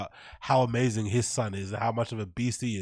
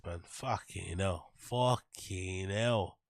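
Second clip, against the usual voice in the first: slow exasperation; 4 semitones lower, much slower than usual. Real, not acted. Drawn-out exasperated groan.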